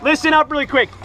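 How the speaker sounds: rallying shout. Real, not acted. Rallying team before round.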